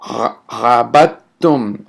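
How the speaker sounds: drawn-out careful syllables; teacher modeling a word; slow demo. Shown as a demonstration. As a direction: say each syllable slowly for the class. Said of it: "the way I'd say it is this".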